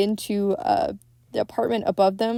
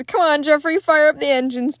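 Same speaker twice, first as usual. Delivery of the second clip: lightly acted higher-pitched self-urging; imitated self pep talk; 6 semitones higher, 4 dB louder than usual. Recapping Jeffrey at his crossword, imitated self pep talk. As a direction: mimic someone geeing himself up, pitched higher. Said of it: "to himself".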